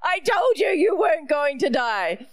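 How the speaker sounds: mock shout at the kids in the back seat; told-you-so mother. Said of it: "I'm like".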